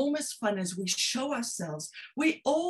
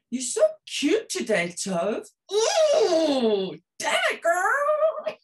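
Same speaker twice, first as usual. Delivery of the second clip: playful kindness; 5 semitones higher, 5 dB louder, much slower than usual. Pretend. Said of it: "Some kindness".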